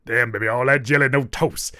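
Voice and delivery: lightly voiced uncle flirting; a hint of an old-head uncle hitting on someone; mock unk pickup line. Mocking the guest's pickup line, lightly voiced uncle. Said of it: "most unkish shit I've ever heard".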